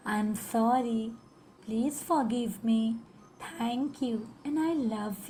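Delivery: very slow, heartfelt plea; full of gratitude. Shown as a demonstration. Teacher saying the mantra to her own body, slow and grateful. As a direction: draw each word out with gratitude. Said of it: "हमारी feeling, हमारी tone ... gratitude से भरी".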